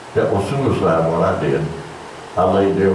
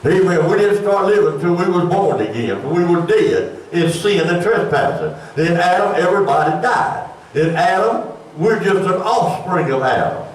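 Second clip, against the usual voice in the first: higher-pitched, insistent sermon voice; preaching; 5 semitones higher than usual. Real, not acted. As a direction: preach it to the congregation. Preaches doctrine with raised pitch.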